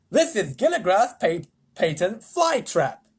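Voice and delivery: president voice. Acted. President explains invention.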